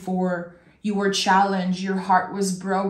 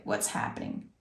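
whispered worry; 12 dB quieter than usual. Retold or imitated. Viewer's anxious thought quoted.

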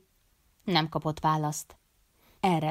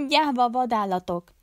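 high-pitched accusing cry; narrated scream of outrage; shrieking; 6 semitones higher, 4 dB louder than usual. A narrator's reading. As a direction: hurl it at attackers in a raised voice. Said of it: "sikoltotta Bárzsut".

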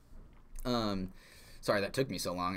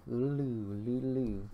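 spooky mask chant; 3 semitones higher, slower than usual. Pretend. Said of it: "this is what Majora's Mask is like".

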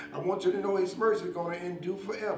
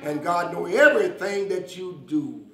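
fervent preaching; 5 dB louder than usual. Real, not acted. Preacher assuring listeners God saw them, fervent preaching. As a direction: preach with bursts of force.

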